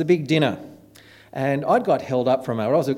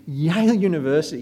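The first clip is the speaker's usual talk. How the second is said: higher, impressed repeat of the name; impressed echo; 4 semitones higher, 4 dB louder than usual. Retold or imitated. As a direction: echo it as an awed listener would. Imitates own impressed reaction to introduction.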